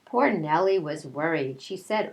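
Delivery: storybook read-aloud voice; reading to children. A narrator's reading. Teacher reading a picture book to her class, storytelling voice.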